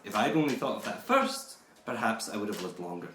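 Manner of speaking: lightly voiced Scottish villain, indignant; Burke the bodysnatcher. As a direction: defend the grave-robbing business with mock pride. Keeps playing Burke the bodysnatcher.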